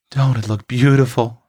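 lightly voiced country girl in admiration; touch of homely pride; admiring Prue. A narrator's reading. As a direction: admire it in a slightly put-on voice. Prue admiring the set table.

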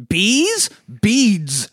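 high, puzzled mock voice; playful high-pitched sitcom mimicry; Arrested Development reference. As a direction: quote the sitcom bit, high and baffled. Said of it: "an Arrested Development reference".

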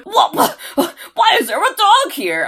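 mock incredulous outburst; baffled boss. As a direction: splutter like a flabbergasted boss.

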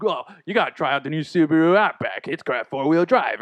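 lightly imitated Australian ad spokesman; Crocodile Dundee pitch. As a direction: sell it in a mock Aussie accent. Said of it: "the ad campaign was Crocodile Dundee".

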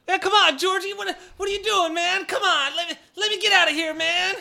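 high-pitched, agitated appeal; urgent pleading. Acted. Trapped traveller begging druid for release, urgent pleading. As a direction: plead to be let loose.

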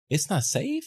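high, disbelieving echo; incredulous. Retold or imitated. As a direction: repeat it back in quiet disbelief. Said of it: "I was thinking".

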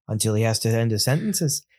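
put-on half-hearted Irish accent, lifting only the phrase endings; mimicked bad Irish accent. Cohost mocking an actor's lazy accent, a weak Irish lilt. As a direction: fake Irish by just tilting sentence ends upward. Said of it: "The upward inflection is the only part of the accent".

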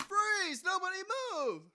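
loud, high robber yell; frantic shouting hostage taker. Acted. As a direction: bark it like a stick-up man. Robber bursts into podcast.

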